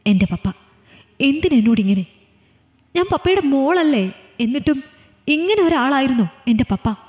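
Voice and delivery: a hurt daughter crying out at her father; crying lament. Acted. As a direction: plead through the tears. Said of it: "പൊട്ടിക്കരഞ്ഞു".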